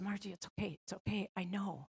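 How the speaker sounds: soothing screaming sister. Retold or imitated. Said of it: "And I said".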